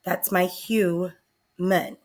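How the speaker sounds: "human" said slowly; slow reveal. Shown as a demonstration. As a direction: lay out "human" at a slow pace. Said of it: "H Y O O and the M U N".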